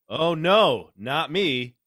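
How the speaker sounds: loud, sneering imitation of the commenter, "just" dragged out slowly; mocking commenter voice. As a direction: parody the smug commenter, loud and snide. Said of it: "I'm trying to use his pr-, like, the way he types".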